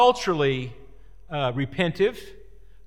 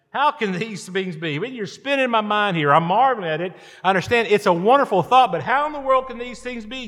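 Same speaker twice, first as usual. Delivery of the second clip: acted-out baffled protest, pitch climbing; higher, mock-incredulous questioning; bewildered questioning; 4 semitones higher, 4 dB louder than usual. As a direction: marvel aloud as if your mind is spinning. Acting out Nicodemus's bewildered questioning.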